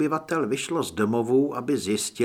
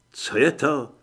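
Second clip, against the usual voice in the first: mildly nervous character voice; understated nervous query; nervous question; 4 dB louder than usual. A narrator's reading. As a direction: ask with a touch of unease. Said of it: "zeptal se nervózně Lee".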